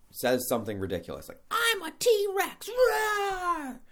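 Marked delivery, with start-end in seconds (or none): 1.5-3.8 very high, loud, slow dinosaur yell; kid's T-Rex roar. Retold or imitated. Child yells at the picnic table, high loud T-Rex roar. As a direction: roar it out like a little kid playing T-Rex. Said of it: "Just yells that right there".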